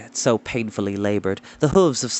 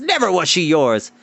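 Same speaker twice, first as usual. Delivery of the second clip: raised, angry insistence; angry lord; 4 semitones higher than usual. Acted. Lord to his rival, raised and angry. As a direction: keep the roar going. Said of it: "roared Gast".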